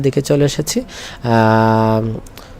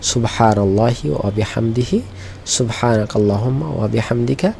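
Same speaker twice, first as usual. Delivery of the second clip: closing prayer; 3 dB quieter than usual. Shown as a demonstration. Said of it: "আমরা একটু বলি".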